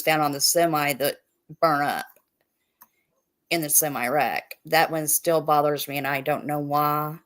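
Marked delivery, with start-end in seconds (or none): 6.0-7.2 Midwestern accent. Real, not acted. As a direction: say why with a Midwestern vowel. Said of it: "you say why".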